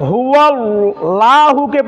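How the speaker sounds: slow হুয়াল্লাহুকে with a plain, thin 'laa'; thin lam. Shown as a demonstration. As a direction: cite হুয়াল্লাহুকে with the lam unthickened. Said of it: "লামটাকে মোটা করে পড়তে হবে". (হুয়াল্লাহুকে-র লাম পাতলা করে, টেনে)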